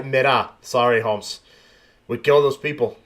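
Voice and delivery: mock Cuban accent, lightly done; a light put-on Cuban accent, joking; joking Cuban cartel voice, barely put on. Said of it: "I know I sound Cuban".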